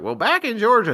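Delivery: put-on high, loud Southern kid voice; Southern accent. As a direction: imitate yourself as a Southern kid. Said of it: "mocking Southern accent".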